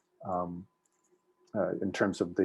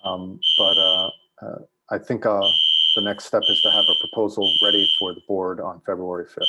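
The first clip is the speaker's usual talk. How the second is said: raised voice over a ringing alarm; shouting over fire alarm; 7 dB louder than usual. Real, not acted. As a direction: talk louder to be heard over the alarm. Speaking while fire alarm sounds.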